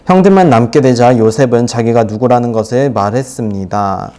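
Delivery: loud, low, even-toned read-aloud; low-pitched formal reading; scripture reading. Acted. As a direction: read the Bible passage out to the room, low and steady. Reads the scripture passage aloud.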